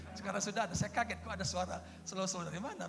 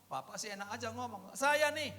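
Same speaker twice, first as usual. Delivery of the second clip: mock indignation, jumping higher at the end; retold angry complaint; 5 semitones higher than usual. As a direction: imitate an aggrieved man protesting. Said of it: "dia marah-marah ke saya".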